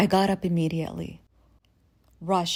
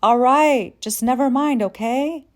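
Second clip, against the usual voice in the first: exasperated sigh; 6 semitones higher, 8 dB louder than usual. Retold or imitated. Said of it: "he sighed out".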